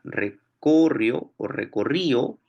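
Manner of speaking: recorrió o recorrió, slow, stress moved left each time; slow recorrió o recorrió with the stress shifted; shifting the stress. Shown as a demonstration. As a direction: drag out recorrió o recorrió, stressing other syllables. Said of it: "si lo mueves hacia la izquierda".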